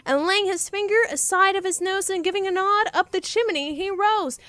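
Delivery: rhythmic read-aloud of the poem; story narration. Acted. Streamer reading the poem to chat, storyteller voice. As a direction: lilt through the verse.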